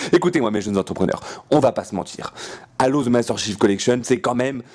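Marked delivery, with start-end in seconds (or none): 2.8-4.0 English accent. Shown as a demonstration. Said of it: "avec l'accent à peu près correct".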